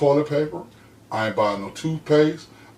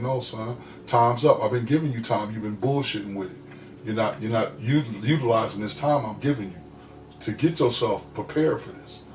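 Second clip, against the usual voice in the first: calm mother; 2 semitones lower, 5 dB quieter than usual. Retold or imitated. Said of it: "calm, cool, and collected".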